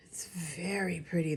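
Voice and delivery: soft unvoiced whisper; hushed admiring whisper. Real, not acted. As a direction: whisper it to the camera. Admiring a tiny sequin.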